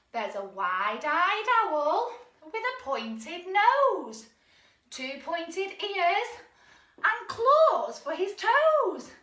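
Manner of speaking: slow, sing-song rhyme reading; nursery rhyme recital. Acted. Leader reciting the owl rhyme to toddlers, slow and sing-song. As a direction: lay out each line slowly for little ones.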